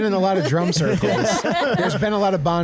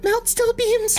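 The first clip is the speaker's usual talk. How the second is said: stoned rambling; slower than usual. Pretend. Stoned character rambles conspiracy.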